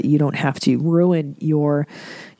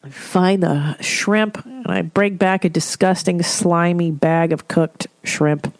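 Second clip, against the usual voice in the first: usual speaking voice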